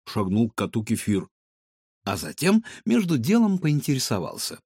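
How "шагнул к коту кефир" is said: usual speaking voice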